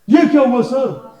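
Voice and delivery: high, loud puzzled student; mock student surprise. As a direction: act out a confused student. Teacher acts a puzzled student. (हैरान छात्र की नकल)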